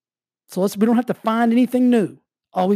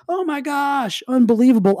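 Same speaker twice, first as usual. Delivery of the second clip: put-on amazed kids; 6 semitones higher than usual. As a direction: mimic kids gasping in wonder. Waking up amazed by your life.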